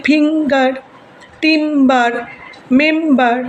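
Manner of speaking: ফিঙ্গার, টিম্বার, মেম্বার each said in two beats; teacher dividing ফিঙ্গার, টিম্বার, মেম্বার into two syllables each; split into syllables. Shown as a demonstration. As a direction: hold the first syllable of ফিঙ্গার, টিম্বার, মেম্বার, then add the second. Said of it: "তাহলে আমি মেম বললাম".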